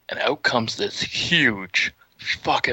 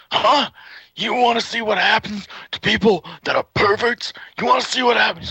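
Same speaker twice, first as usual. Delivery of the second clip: angry big guy; 5 semitones higher than usual. Retold or imitated. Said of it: "He's like".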